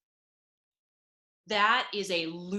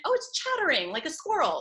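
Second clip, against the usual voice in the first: mock innocent; 7 semitones higher, faster than usual. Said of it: "It sounds so, like, innocent".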